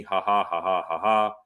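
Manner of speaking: imitating a taunting ha ha ha; mock the commenter's laugh back at him. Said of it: "and he's laughing at me".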